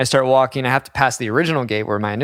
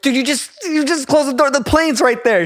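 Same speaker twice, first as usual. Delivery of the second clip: high, disbelieving plea; incredulous plea; 11 semitones higher than usual. Retold or imitated. To the gate agent who shut the door, incredulous. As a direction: point at the plane in disbelief.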